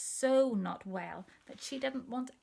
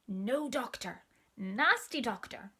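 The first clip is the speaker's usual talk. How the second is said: put-on sulky child refusal; 2 semitones higher than usual.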